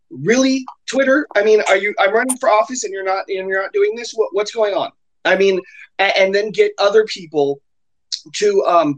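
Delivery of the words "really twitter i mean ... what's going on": mock incredulous challenge, pitched up at first; indignant complaint. Shown as a demonstration. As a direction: demonstrate a mildly exasperated public complaint. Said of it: "And then you need to say".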